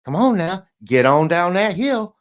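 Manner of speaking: mock cowboy calling cattle. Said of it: "sounds like a gay cowboy".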